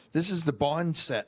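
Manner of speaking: amused, breaking into a laugh; laughing reveal. Retold or imitated. Producer tells actor he's on the wrong set, laughing. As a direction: deliver it through a chuckle. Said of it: "And he's like".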